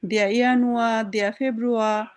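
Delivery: ইয়ানুয়া said as German yah-noo-ah, ফেব্রুয়া as feh-broo-ah; German pronunciation. Shown as a demonstration. Teacher showing the class the German month names, said carefully. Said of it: "এরকম দিয়া বসছে".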